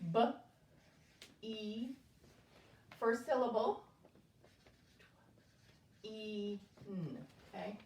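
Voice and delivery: letters read one by one, spaced; sounding out letters. Shown as a demonstration. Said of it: "Saying the sounds as you do".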